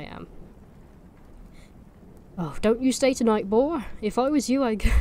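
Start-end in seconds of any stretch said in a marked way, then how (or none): 2.4-4.9 put-on Norfolk accent. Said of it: "going a bit wrong with the accent".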